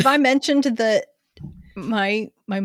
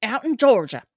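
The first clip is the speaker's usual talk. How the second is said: put-on angry Georgia accent; faster than usual. Co-host getting into character before the ad, Georgia accent. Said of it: "read this like my cousins".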